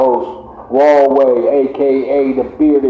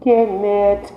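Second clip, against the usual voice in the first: higher-pitched put-on Irish accent; mock Irish accent; 11 semitones higher than usual. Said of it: "Strong Irish accent".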